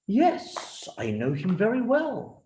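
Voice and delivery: king's reply. Acted. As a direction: answer like a pleased king. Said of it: "replied the king".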